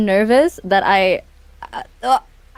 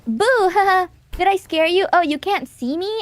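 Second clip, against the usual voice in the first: startling boo; 8 semitones higher than usual. Retold or imitated. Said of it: "I'm treating chat like a preschooler".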